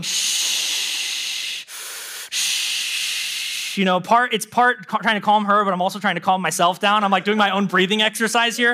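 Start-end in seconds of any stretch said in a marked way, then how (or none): 0.0-3.8 soft whispered shush. Retold or imitated. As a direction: hush a baby to sleep.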